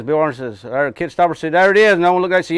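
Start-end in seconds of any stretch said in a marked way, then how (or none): 1.5-1.9 Ocracoke brogue. Retold or imitated. Retold joke, punchline voice.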